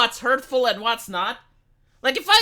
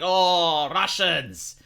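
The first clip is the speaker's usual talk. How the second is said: a hint of a grand soldier announcing to the Russians; mock earnest soldier. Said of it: "are the Ukrainian soldiers like".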